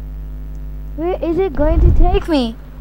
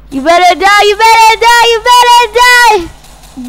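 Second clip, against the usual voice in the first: mock furious; 5 semitones higher, 4 dB louder than usual. Shooting at zombie.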